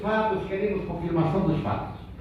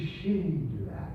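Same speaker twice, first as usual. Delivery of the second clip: a weak, damaged throat barely getting the name out; a hint of the strained voice of a throat tumour; horrible sick voice; 3 semitones lower, 7 dB quieter than usual. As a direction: say it softer, through a throat that hurts. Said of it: "mas aquele horror de voz".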